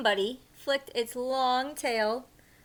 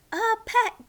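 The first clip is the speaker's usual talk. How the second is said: happy; 9 semitones higher, 7 dB louder than usual. Acted. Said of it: "Gilbert glubbed happily".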